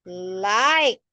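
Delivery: "Liked" said slowly and clearly as a model; model word liked. Shown as a demonstration. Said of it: "Again, say it".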